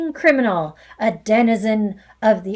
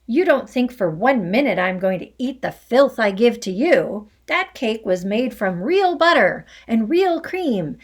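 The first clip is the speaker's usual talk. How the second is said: loud, higher angry rant; furious tirade; 3 semitones higher, 5 dB louder than usual. Acted. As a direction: rage on about the stolen cake. Headmistress's furious accusing tirade.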